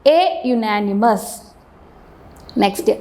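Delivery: എ stressed and slowed before each word, with pauses between; slow drill. Shown as a demonstration. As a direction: read every "എ ..." slowly, leaning on എ. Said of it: "article എ ആയിരിക്കും വരുന്നത്". (എ എന്നതിൽ ഊന്നി സാവധാനം ഓരോന്നും വായിക്കുക)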